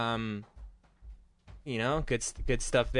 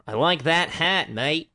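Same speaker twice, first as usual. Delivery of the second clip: broad practice Australian accent, raised pitch; Australian dry run, slow and higher; 6 semitones higher, 4 dB louder, slower than usual. Shown as a demonstration. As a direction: try out an amateurish Aussie accent. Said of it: "I'll work on my Australian accent".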